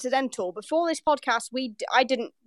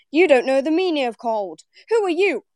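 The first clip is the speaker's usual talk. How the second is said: mock indignation; 4 semitones higher, 3 dB louder than usual. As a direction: pitch climbing into a challenge. Voicing indignant northerner from a Vine.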